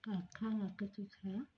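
fingers in mouth; talking with mouth open; retainer in mouth. Real, not acted. Seen 3: Held out at first; from 2.8s pushed in, fingers inside mouth.

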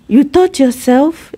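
high-pitched, surprised questioning. Retold or imitated. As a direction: ask in surprise, voice jumping up. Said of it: "that actually surprised".

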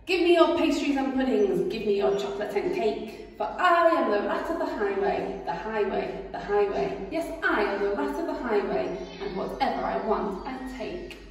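loud swaggering highway robber; boastful rat. Acted. Rat demanding the rabbit's cakes, swaggering. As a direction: demand it like a bully.

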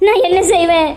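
helpless mother's keening; tearful, despairing wail; wailing lament. Acted. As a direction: moan and lament your fate. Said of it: "சும்மா ஒப்பாரி வைக்காம".

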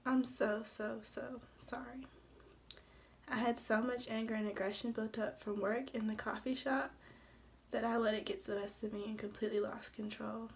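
a hint of crying, pleading; mildly tearful, begging her; tearful apology. Husband begging May for forgiveness, mildly tearful. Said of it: "he cried".

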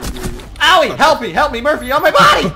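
mock cry for help. Downed, calling teammate for help.

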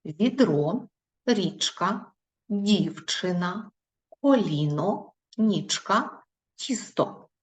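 each word said slowly and clearly, one by one; slow dictation reading. Shown as a demonstration. Teacher reading words to first graders, slow and clear. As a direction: read the list out for children to hear. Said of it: "я вам прочитаю, ви послухайте".

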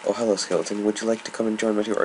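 chirpy, quick tour guide greeting; playing tour guide to a skeleton. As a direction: welcome the skeleton aboard like a guide.

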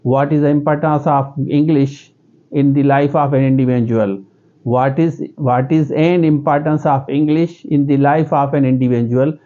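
slow question in a local Pakistani accent; local-accent English question. Shown as a demonstration. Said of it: "उसी accent में करेगा जो उसका local accent है". (पाकिस्तानी लहजे में धीमा सवाल)

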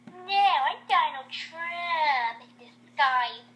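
slow, stretched-out mock announcement; hammed-up reveal. Missy unmasking herself to Vixen, slow hammed-up reveal. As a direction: draw out the big reveal. Character reveal acted in story.

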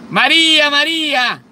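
shouting a name across the house; calling out. Retold or imitated. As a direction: call her from another room. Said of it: "empieza a gritar".

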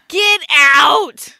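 loud, drawn-out shout of disbelief; mock-outraged shout. Friend reacting to the chosen temperature, mock-outraged shout. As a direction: holler it, stretching both words.

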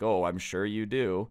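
understated retold condescension; condescending. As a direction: agree as if you don't believe it. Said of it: "a little bit of a condescending way".

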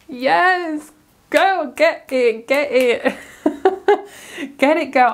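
high, thrilled cheer of get it; cheering the card on with glee; delighted hyped-up cheer; excited cheering. Real, not acted.

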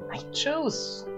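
puzzled. Real, not acted. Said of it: "I don't know what he means".

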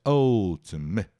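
ultimate with a light schwa first vowel; teacher modelling ultimate. Shown as a demonstration. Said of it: "É um schwa ali".

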